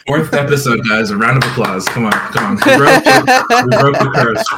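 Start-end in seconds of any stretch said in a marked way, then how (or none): 2.6-4.4 excited. Real, not acted. Celebrating broken curse.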